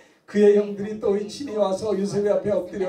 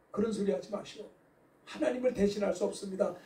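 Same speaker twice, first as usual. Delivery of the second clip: softer, pleading gently through a touch of tears; tearful earnest plea; 7 dB quieter than usual. Retold or imitated. Joseph to his weeping brothers, softly pleading. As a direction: beg quietly, as if holding back tears. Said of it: "울면서 간곡하게".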